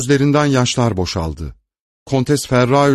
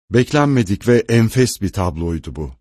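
ordinary delivery

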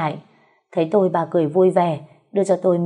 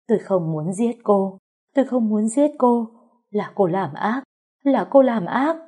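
pleading wail, jumping higher on repeats; tearful lament; 4 semitones higher than usual. A narrator's reading. Trembling servant pleads she never meant to kill, lamenting. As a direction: protest as if crying, voice climbing. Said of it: "tiếng người khóc than".

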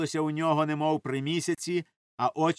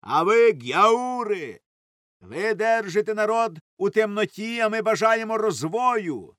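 loud, higher angry retort; shouting; 6 semitones higher, 5 dB louder than usual. A narrator's reading. Elders and youth trade shouts in the café. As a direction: yell back in defiance. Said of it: "Усі кричали".

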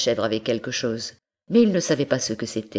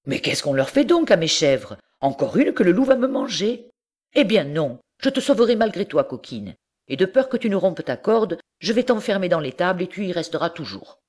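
higher, fast, fed-up resolve; decide it firmly, speeding up; exasperated farmer; 5 semitones higher, faster than usual. Acted. Monsieur Seguin decides to lock up his goat, fed up.

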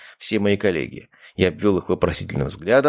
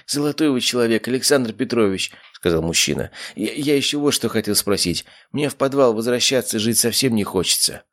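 higher pleading voice of a humble man; timid patient asking for help, higher and pleading; humble grateful patient; 5 semitones higher than usual. Acted. Arkhip begging for shelter.

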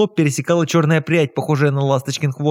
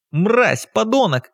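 shouting insults; 7 semitones higher, much slower than usual. Acted. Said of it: "шумели наши соседи".

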